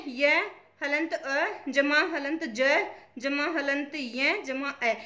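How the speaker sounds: slow breakdown, य, अ, ज each set apart by जमा; sounds separated. Shown as a demonstration. Teacher checking the option for students, sounds slowly separated. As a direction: read each piece from य to ए slowly, one by one. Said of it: "बिल्कुल अलग अलग कर दिया है सभी ध्वनियों को".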